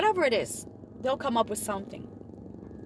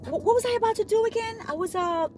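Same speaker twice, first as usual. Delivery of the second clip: confused; 8 semitones higher, faster than usual. Retold or imitated. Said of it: "feeling confused and disoriented".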